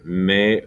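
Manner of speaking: Mejorando broken up, with AN held strongest; stress on an. Shown as a demonstration. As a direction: lean hard on the AN in Mejorando. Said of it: "The accent on the an".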